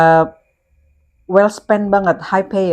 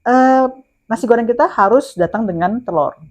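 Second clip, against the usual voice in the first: staff's stiff reply; 6 semitones higher than usual. Retold or imitated. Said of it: "Tim kita ngomongnya seperti itu".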